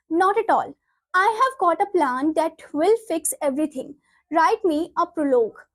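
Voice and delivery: slow, deliberate textbook read-aloud; measured classroom reading. Acted. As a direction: read the script out slowly, word by word. Reads play lines aloud.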